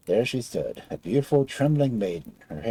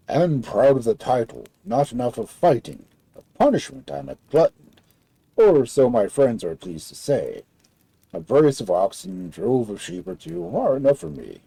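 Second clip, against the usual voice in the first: loud, boastful giant voice; 5 dB louder than usual. Acted.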